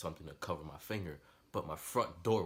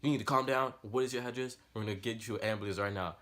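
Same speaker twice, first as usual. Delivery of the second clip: higher, louder mock dispatcher; imitating the operator; 4 semitones higher, 6 dB louder than usual. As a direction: play the urgent 911 operator. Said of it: "And they're like".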